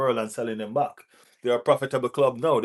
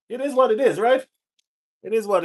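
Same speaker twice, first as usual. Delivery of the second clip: emphatic; 9 semitones higher, 4 dB louder than usual. Real, not acted. Exclaims high.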